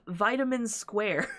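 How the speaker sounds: put-on slow, broad American accent on the name; thick American accent. Armstrong telling the detectives, in a thick American accent. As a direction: say it like a big-talking American. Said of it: "the most American accent ever".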